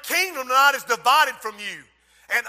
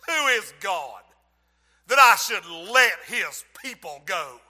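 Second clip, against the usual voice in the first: defiant Pharaoh; 4 semitones lower than usual. Acted. Pharaoh defies God.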